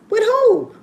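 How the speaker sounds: high, loud incredulous mom; imitating mama, high and loud; mama shocked. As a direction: echo it back like a stunned mother. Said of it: "mama voiced in retold phone call".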